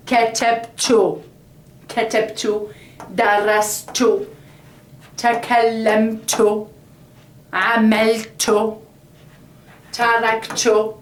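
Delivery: each verb spaced out and careful; said slowly. Shown as a demonstration. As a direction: give every verb its own slow beat. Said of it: "I'm gonna say it slowly".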